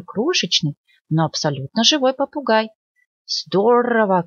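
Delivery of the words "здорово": parrot shout. Acted. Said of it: "крикнул попугай".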